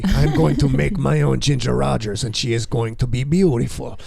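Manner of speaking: lightly voiced Frankenstein-movie character; a hint of a monster-movie scientist announcing a creation; mad-scientist movie voice. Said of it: "sounds like a Frankenstein movie".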